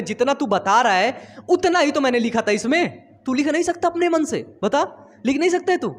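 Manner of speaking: half-joking telling-off, climbing up; mock scolding. Teacher scolds student in retold story. (मज़ाकिया डाँट, आवाज़ ऊपर चढ़ती हुई)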